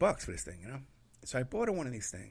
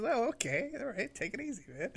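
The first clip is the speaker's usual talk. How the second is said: mock calming; 9 semitones higher than usual. Mocking reply to jumpy recruit.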